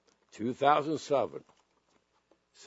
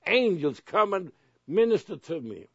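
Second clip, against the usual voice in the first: loud bold prayer; 5 semitones higher, 5 dB louder than usual. Shown as a demonstration. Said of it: "And then say".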